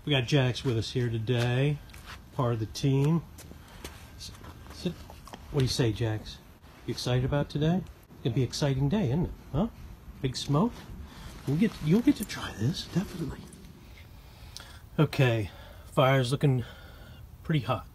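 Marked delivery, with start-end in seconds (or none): 4.2-13.4 talking to the dog. Real, not acted.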